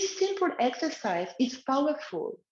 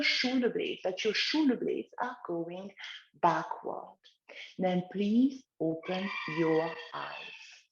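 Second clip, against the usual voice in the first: guided relaxation. Acted. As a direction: lead gently, eyes closed. Guides through the closing.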